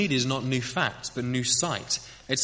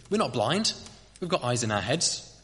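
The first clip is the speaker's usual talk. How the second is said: indignant. Acted. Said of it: "said Eustace indignantly".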